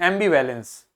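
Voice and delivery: ambivalence joined up, soft ending; light final syllable. Shown as a demonstration. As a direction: keep the end of ambivalence light. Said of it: "इसको हल्का बोलना है".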